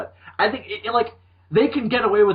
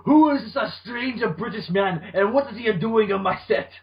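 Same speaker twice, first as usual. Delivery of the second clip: put-on British-Japanese accent mix; 4 semitones higher than usual. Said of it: "weird cross between British and Japanese".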